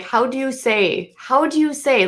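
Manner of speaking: rising, high imitation of a fake accent; hammed-up fake Spanish accent, fumbling for words; mock accent. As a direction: mimic her pretending to forget English. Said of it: "she literally is like".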